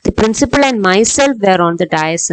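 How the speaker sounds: slow, careful wrong version; teacher showing the wrong sentence; wrong example, slow. Shown as a demonstration. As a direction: read out the incorrect form slowly. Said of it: "എന്ന് പറയില്ല".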